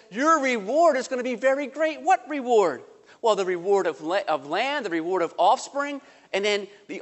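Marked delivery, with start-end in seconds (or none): 0.1-2.0 God's promise. Acted. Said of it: "And he says".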